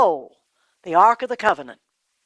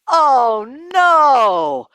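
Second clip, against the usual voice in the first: mild dismay; 4 semitones higher, 5 dB louder than usual. A narrator's reading. Eli hears sons are dead.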